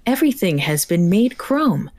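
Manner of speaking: a hint of a robot lady; lightly voiced robot lady narrator. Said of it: "Excellent character voice for the robot lady".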